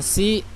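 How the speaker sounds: "si" with a thin, plain s; sin sound. Shown as a demonstration. Teacher shows a mistake, "si" with plain s. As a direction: say "si" with a light s.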